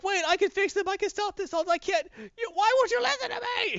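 very high-pitched mock desperation; plead, climbing to a high cry; frantic pleading. Firestorm begging to be listened to, high and frantic. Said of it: "His powers start freaking out".

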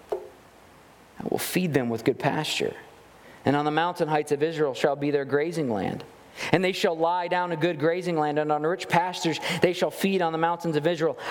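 solemn scripture read from the pulpit. Acted. Reads scripture passage aloud.

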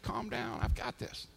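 softly spoken, easy confidence; calm reassurance. Acted. Jesus calming the upset mourners, quiet reassurance. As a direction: soothe them quietly, totally unbothered. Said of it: "Jesus is like".

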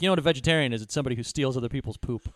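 retold joke line, fast and shouted at the end; imitating John. Old college friend repeating his gag, mock shout. Friend John's bit, quoted.

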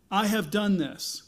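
slow, emphatic "I", then the rest measured; stress on I. Shown as a demonstration. God reminding Israel who acted, stress on "I". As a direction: put the weight on "I". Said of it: "the I in that is emphatic".

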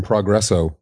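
"Progresso" with an open "prah" first syllable; own pronunciation. Shown as a demonstration. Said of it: "I pronounce progress".

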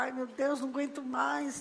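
mimando queixoso. Retold or imitated. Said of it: "o Paulo tava todo fofo lá".

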